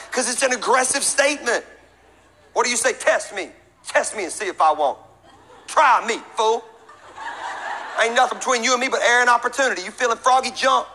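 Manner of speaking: put-on fighting talk; mock challenge. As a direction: dare them like a joking street fighter. Tough-guy challenge as a joke.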